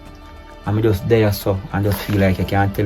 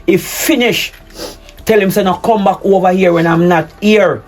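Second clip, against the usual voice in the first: angry commands; 6 semitones higher than usual. Acted. Husband orders wife to end the affair, angry commands. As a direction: tell her what she must do, seething.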